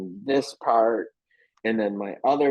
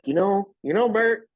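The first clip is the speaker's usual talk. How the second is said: Bert voice; 5 semitones higher than usual. Retold or imitated. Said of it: "and he's like".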